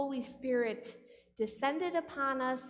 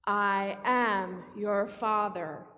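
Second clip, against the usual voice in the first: slow, booming low villain voice; Darth Vader; 3 semitones lower, 4 dB louder, slower than usual. Acted. Preacher has God speak to Jesus as Darth Vader, slow booming villain. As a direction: drag each word out with heavy force. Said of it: "best Darth Vader voice".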